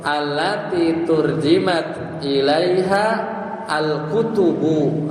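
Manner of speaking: Arabic read slowly and deliberately; slow recitation. Shown as a demonstration. Teacher reciting the Arabic sentence slowly to the class. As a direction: recite the sentence carefully, word by word. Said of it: "Cocok tuh".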